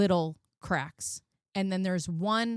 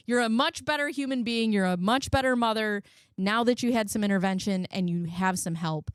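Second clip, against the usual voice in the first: inner voice; 5 semitones higher than usual. Retold or imitated. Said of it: "There's been plenty of times where I'm like".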